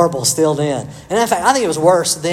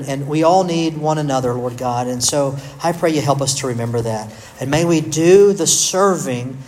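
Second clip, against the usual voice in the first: prayer. Acted. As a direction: lead the church in closing prayer. Closing prayer.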